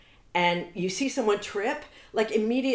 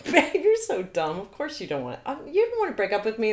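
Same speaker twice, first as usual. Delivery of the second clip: teasing partner; 4 semitones higher, 5 dB louder than usual. Retold or imitated. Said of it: "start laughing at you".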